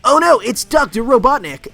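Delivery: high, loud cartoon hero alarm; Sonic. Sonic spotting the villain Robotnik, high mock-alarmed cartoon voice. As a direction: cry out in a put-on high mascot voice. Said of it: "then Sonic will be like".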